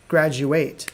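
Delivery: graduate said GRAD-joo-ate, final syllable like ate; graduate, verb. Shown as a demonstration. Teacher showing the verb graduate to students. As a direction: end graduate rhyming with ate. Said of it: "Hear the difference?".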